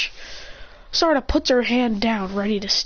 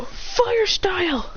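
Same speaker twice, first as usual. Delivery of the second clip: high, very slow stretched fire style; high drawn-out anime call; slow attack call; 8 semitones higher, much slower than usual. Acted. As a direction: drag the move name out. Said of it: "Then they both go".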